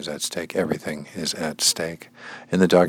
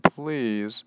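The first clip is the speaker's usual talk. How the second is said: high, long-drawn imploring cry; pleading; 4 dB quieter, much slower than usual. Acted. Reader as Jacob begging to be pardoned, pleading. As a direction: beg slowly in a high, stretched voice.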